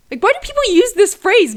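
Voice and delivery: high, loud, laughing through the words; laughing exasperation. Real, not acted. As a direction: laugh it out in disbelief. Laughing at her own story.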